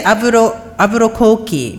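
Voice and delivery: "Albuquerque" said as Aburo-koki; Japanese pronunciation. Shown as a demonstration. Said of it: "Well, we say".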